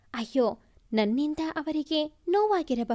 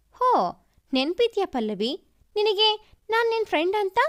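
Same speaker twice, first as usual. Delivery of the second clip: a hurt, sarcastic dig that lifts at the end; sarcastic jab; 5 semitones higher than usual. Acted. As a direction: needle her friend with mock surprise. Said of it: "ಎಂದು ಕೊಂಕಾಡಿದಳು ಕೀರ್ತಿ". (ಕೊಂಕು ಮಾತಿನ ವ್ಯಂಗ್ಯ)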